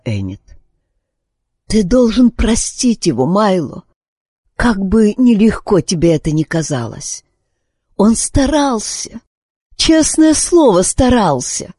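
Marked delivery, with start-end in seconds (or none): 1.7-11.7 high, earnest pleading; pleading wife. A narrator's reading. Sick wife begs her husband to forgive their son. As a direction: beg him to forgive, rising high.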